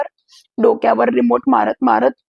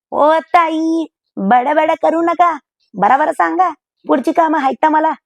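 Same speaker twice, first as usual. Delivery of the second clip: a lightly voiced cheeky maid, higher; maid's sassy higher voice hurrying her boss; pushy robot maid; 4 semitones higher than usual. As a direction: chatter at her like an impatient house help. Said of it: "असं बोलताच शांता सुरू झाली ना".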